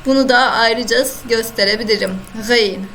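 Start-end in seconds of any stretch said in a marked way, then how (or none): 2.5-2.9 "Gıyn" with a throaty, gargled g; throaty Arabic ghayn. Shown as a demonstration. Teacher showing students the Arabic ghayn, throaty. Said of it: "ha gibi yine genizden çıkarıyoruz".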